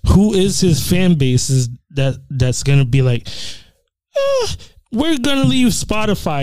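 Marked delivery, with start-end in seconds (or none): 4.2-6.4 put-on high, creaky old man voice; imitating a confused old man. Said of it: "Is that your old man voice?".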